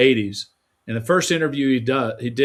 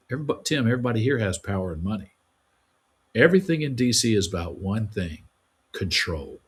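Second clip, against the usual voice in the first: quoting boss. Retold or imitated.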